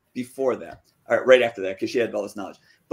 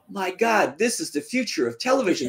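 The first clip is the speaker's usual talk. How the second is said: excited awe; 8 semitones higher than usual. Retold or imitated. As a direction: gush like you just saw the future. Awed by Babylon Five.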